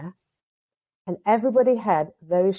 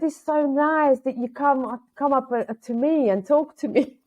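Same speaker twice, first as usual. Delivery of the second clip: higher, slow sweet thanks; grateful lady; 6 semitones higher than usual. Retold or imitated. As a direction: gush gently like the pleased lady. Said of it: "she said".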